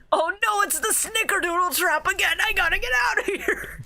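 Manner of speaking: high, hammed-up alarm; mock panic. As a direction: play Grandpa frantic to escape. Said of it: "And then he goes".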